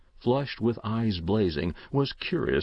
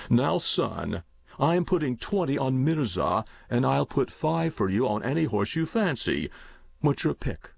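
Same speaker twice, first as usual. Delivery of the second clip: lightly voiced uncle, a little higher pitched; genial uncle; 4 semitones higher than usual. Uncle offers nephew a bet at the races, lightly acted and genial. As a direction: offer the treat like an indulgent uncle.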